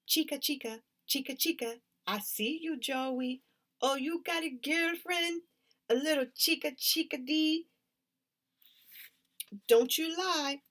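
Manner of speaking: put-on high, sing-song teasing girl's voice. A narrator's reading. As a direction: needle him about his girlfriend. Tully teases Joey.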